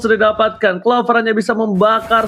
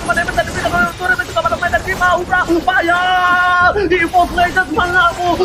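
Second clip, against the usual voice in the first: excited play-by-play; 5 semitones higher than usual. Real, not acted. Caster hyping final push.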